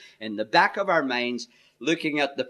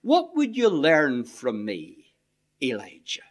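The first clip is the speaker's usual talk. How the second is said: gentle inviting question; 3 semitones lower than usual. Shown as a demonstration. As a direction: ask it gently, as an open invitation. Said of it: "they can be read like this".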